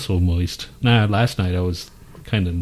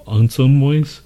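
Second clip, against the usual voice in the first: rising, louder quizzical take on moist; questioning; 6 semitones higher, 6 dB louder, slower than usual. Shown as a demonstration. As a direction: ask it back in disbelief.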